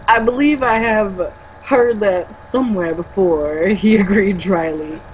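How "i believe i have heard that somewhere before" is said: a hint of Walken, slow and deliberate; Christopher Walken. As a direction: drag each phrase out. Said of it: "I'm dying from trying to do Christopher Walken".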